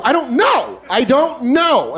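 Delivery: high, slow sulky whine; from scared to petty annoyance; bitchy. Retold or imitated. To the robber at gunpoint, a high drawn-out bitchy whine. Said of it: "my tone goes from scared to, uh, like, bitchy".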